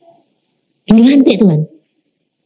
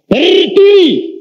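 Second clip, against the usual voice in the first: higher, drawn-out divine command; slow commanding voice of God; 12 semitones higher, much slower than usual. Retold or imitated. God ordering the kneeling man to stand, slow and commanding. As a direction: stretch the word out like a solemn order from above.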